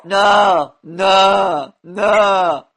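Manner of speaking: mock Yeti. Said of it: "You sound like a fucking Yeti".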